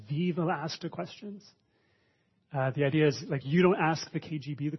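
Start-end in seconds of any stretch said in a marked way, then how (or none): 0.1-1.4 lightly imitated Russian accent; a mock Russian accent. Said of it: "in a Russian accent, Dwight says".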